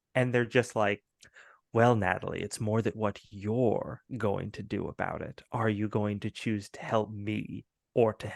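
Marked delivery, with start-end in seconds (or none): 1.7-8.2 very deep, creepy, eerie, menacing voice. Acting out someone who turns to speak to natalie, imitating a deep, creepy voice. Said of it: "their voice gets like really deep and creepy".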